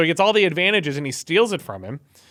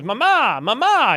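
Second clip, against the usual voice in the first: high-pitched mock cry for mother; whimpery imitation of a scared son calling out; nervous; 6 semitones higher than usual. Son running back to his mother, imitated nervous call. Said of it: "Jacob gets a little nervous".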